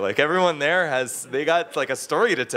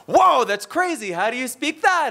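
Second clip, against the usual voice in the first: mock amazement; 11 semitones higher than usual. Locals amazed he speaks Chinese.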